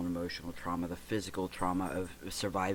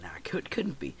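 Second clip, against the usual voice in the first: higher and louder, brushing the idea off; retelling own incredulous denial, pitched up; dismissive disbelief; 9 semitones higher, 4 dB louder than usual. Retold or imitated. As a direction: scoff at it as impossible. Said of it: "I said".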